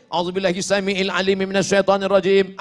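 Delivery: steady Arabic recitation; recited formula. Shown as a demonstration. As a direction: recite the longer version evenly. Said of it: "Ada yang lain?".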